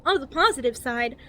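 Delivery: over-enunciated guidebook narration, lilting up and down; cheery infomercial voice. Acted. Reading a survival guide to new players, cheery infomercial voice. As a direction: read it like a relentlessly positive infomercial. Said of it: "infomercial that's trying to be cheery and positive".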